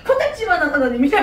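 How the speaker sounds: mock-pitying sneer; taunting Goliath. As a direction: belittle them with a theatrical sigh. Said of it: "막 이렇게 놀리는 거야". (한심하다는 듯 놀리는 말투)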